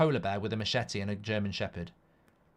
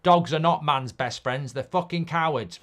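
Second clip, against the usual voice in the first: mock outrage; 3 semitones higher, 6 dB louder than usual. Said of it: "go on my phone very quickly and go".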